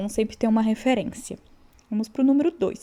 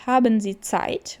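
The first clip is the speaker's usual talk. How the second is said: model sentence; 3 dB louder, slower than usual. Shown as a demonstration. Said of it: "Então, Zeit".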